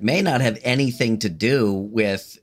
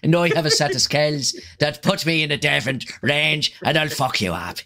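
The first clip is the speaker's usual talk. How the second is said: Liam Neeson; 3 semitones higher than usual. Retold or imitated. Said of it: "I'm from fucking New Jersey".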